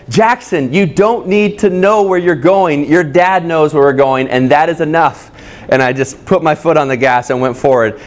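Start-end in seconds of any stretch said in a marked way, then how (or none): 0.1-5.3 a touch of a stern, irritated dad; firm fatherly rebuke, lightly voiced; mild retold anger. Father snapping back at his son in the car, mildly stern. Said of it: "in anger, I looked back and I said".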